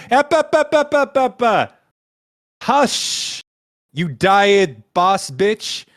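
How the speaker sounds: high, loud cutting-off; imperious shushing. Acted. God silencing an objector mid-sentence, imperious shushing. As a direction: shush them sharply, then draw out the insult.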